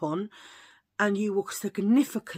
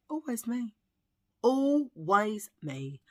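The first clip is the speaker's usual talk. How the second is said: 1 slow lament; 4 semitones higher, slower than usual. Real, not acted.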